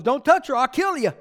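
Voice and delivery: a fierce God warning off the king; God's stern warning. Acted. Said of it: "God shows up and goes".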